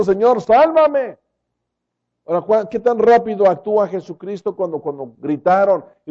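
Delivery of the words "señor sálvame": mock cry for help. Peter sinking, crying to the Lord, slow raised plea. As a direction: cry out to be saved, drawn out. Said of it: "Y gritó, diciendo".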